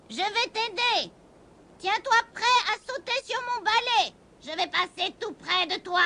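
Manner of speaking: a witch gently promising help; reassuring witch. A narrator's reading. The witch reassures the scared kitten, softly.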